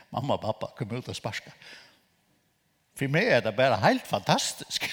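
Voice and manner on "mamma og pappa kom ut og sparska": laughing. Real, not acted. Laughing retelling of prophecy.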